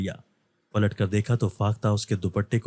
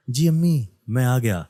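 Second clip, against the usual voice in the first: higher, louder call to another room; 3 semitones higher, 4 dB louder than usual. Acted. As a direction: answer his mother from afar. Calling back to his mother. (امی کو دور سے اونچی آواز میں جواب)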